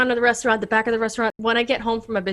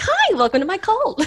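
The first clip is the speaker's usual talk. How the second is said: laughing; 11 semitones higher, 4 dB louder than usual. Retold or imitated. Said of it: "being like".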